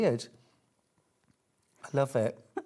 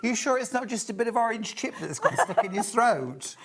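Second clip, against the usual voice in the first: high giggly teasing; laughing; 8 semitones higher than usual. Real, not acted. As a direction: tease while laughing.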